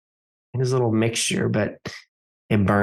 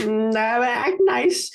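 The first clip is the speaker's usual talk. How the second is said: nervous urging; 9 semitones higher, slower than usual. Acted. Nervously coaching panicking friend.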